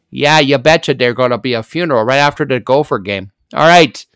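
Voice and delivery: hammed-up Minnesota accent with a long you betcha. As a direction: play a folksy Minnesota local. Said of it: "That's my Minnesota accent".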